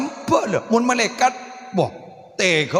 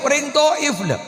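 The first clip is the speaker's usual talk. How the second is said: shout; 6 semitones higher than usual. Shown as a demonstration. Preacher repeats the name, shouting.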